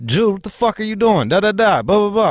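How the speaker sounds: imitating an older neighbor scolding a kid; mock scolding neighbor. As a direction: play the nosy neighbor checking a kid.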